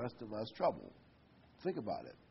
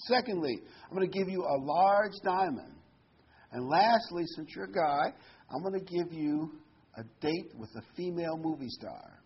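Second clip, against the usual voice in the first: genie listing gifts; 4 semitones higher than usual. Retold or imitated. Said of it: "he says".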